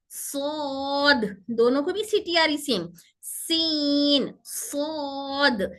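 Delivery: slow contrast demo; thin vs heavy s. Shown as a demonstration. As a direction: alternate a thin सीन and a thick सौद, very slow. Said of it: "सीन बारीक पढ़ेंगे और सौद मोटा पढ़ेंगे".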